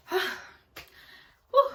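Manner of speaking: high, loud winded exhale; acted breathless "whew"; out-of-breath puff. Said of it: "it just felt like".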